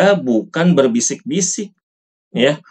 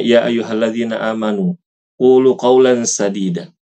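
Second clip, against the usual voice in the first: measured chanted Arabic verse; Quran recitation. Shown as a demonstration.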